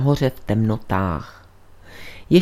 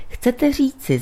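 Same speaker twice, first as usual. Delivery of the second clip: higher-pitched, mildly hoarse outburst; hoarse exclamation; 9 semitones higher than usual. A narrator's reading. Friend jolted by the priest's revelation, hoarsely exclaiming. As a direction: exclaim it as if husky with shock. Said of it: "zvolal ochraptěle".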